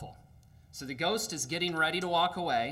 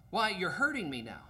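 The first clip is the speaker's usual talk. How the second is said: hurt ghost; 5 semitones higher than usual. Acted.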